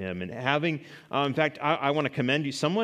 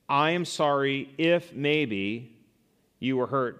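fake apology; 3 dB louder, slower than usual. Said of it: "token statements that are not confession".

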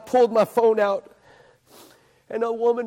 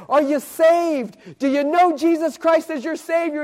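raised, higher preacher's question; earnest questioning; 6 semitones higher than usual. Retold or imitated. Street preacher asks the little lady if she's saved, earnest and raised.

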